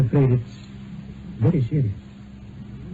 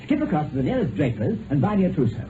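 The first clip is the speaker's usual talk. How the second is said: playful mock order; 8 semitones higher, 6 dB quieter than usual. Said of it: "Whatever does he mean?".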